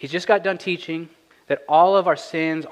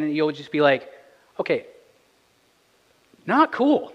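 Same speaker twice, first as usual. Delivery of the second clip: higher, louder, quick indignant voice; imagined congregant objecting; 4 semitones higher, 4 dB louder than usual. Retold or imitated. Pastor voicing a doubting listener's protest, higher and louder. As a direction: play a bewildered churchgoer pushing back. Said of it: "you might be thinking to yourself".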